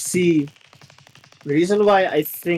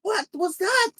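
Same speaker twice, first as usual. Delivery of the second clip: stunned disbelief; 13 semitones higher than usual. Real, not acted. Disbelief at the finish.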